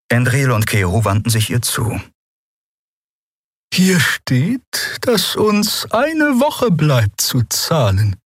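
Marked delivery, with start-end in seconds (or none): 3.7-8.2 calm the two down slowly; gently. A narrator's reading. A lightly voiced gentle Draxyl calming the quarrel. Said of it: "sagte die Draxyl sanft".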